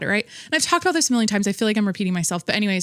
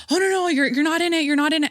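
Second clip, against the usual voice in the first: higher, flustered denial in a put-on voice; imitating gym woman; 7 semitones higher, faster than usual. Vlogger mimicking the woman who filmed her, high and flustered. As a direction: play the caught filmer, lightly. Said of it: "And she's like".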